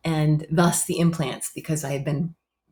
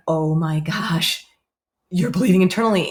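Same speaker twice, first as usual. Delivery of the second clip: alarmed doctor; 4 dB louder than usual. Retold or imitated. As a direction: sound the alarm to the patient. Surgeon alarmed at night.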